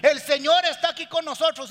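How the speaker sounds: high, loud mock proclamation; preaching pastor. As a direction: proclaim it from the pulpit. Pastor proclaiming during service.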